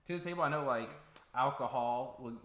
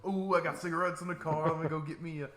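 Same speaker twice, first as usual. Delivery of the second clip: giddy and eager, louder; excited; 4 semitones higher, 6 dB louder than usual. Retold or imitated. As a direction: gush with excitement. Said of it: "I get excited for that cigarette. I'm like".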